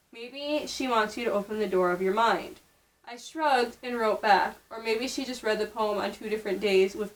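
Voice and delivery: even, measured book reading; reading aloud. Acted. Reading a random novel passage to a friend, evenly.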